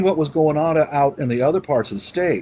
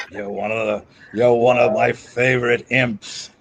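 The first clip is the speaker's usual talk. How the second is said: booming demon lord; 4 semitones lower than usual. Pretend.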